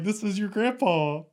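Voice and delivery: slow, lightly voiced old man; a hint of an old man's voice, slowed down; grandpa on the phone. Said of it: "He's like".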